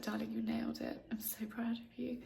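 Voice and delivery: softly whispered husband's words; whispered quote. Retold or imitated. Retelling her husband's message, whispered softly. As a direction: pass on his praise in a tender whisper. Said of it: "he was like".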